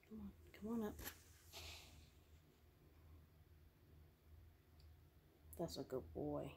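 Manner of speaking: hushed whisper, keeping the house asleep. Real, not acted. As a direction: whisper so you don't wake anyone. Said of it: "I know I'm whispering".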